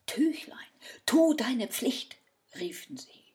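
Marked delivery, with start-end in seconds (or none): 0.1-2.2 hushed spell. Acted. Innkeepers secretly try the cloth.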